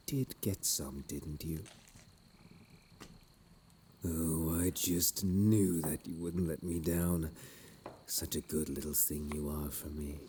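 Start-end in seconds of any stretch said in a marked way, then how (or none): 4.1-7.3 sugary, patronising praise; mock sweet. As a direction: gush over them like a pet. Villain gushes mock praise.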